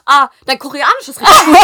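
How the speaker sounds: gush, cracking up; laughing mock praise. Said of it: "dann meinte sie". (lachend übertriebenes Lob)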